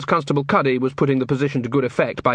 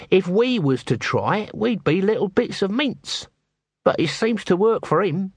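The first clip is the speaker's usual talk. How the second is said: higher-pitched character voice; rueful watchman; 6 semitones higher than usual. Acted. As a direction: muse on it as a wary, lowly watchman, pitched up. Nobby's voice in dialogue.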